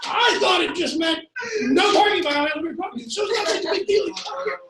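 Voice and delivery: high, rising mock-innocent plea to the prosecutor; arguing with the prosecutor, playing innocent, pitched high; mock innocent pleading. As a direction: play dumb and sweet about the sign. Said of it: "I went to the prosecutor".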